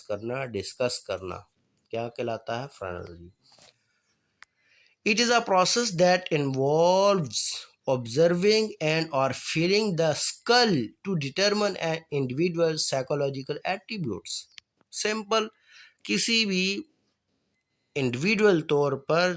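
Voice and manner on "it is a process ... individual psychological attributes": very slow, word by word; slow dictation. Shown as a demonstration. Teacher reading the English definition to students, very slow. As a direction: read the definition slowly for note taking. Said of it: "reading definition out to students".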